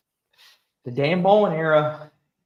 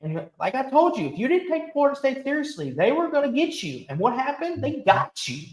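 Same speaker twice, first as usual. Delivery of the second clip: pitched-up, exasperated venting; heated rant; 4 semitones higher than usual. Real, not acted. Host venting at his co-host about Bama, heated. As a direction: really let the frustration out. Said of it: "sound like I'm angry here".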